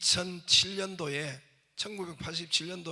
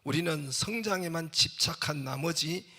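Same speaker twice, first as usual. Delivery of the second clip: declaimed reading, building in force; book reading; 4 dB louder than usual. Acted. Preacher quoting the chairman's book, emphatic reading. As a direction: read it out emphatically, gaining volume. Reads book passage aloud.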